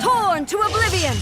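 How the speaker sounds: high, loud attack shout; commanding combat yell; battle cry. Acted. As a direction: unleash it as the blow lands.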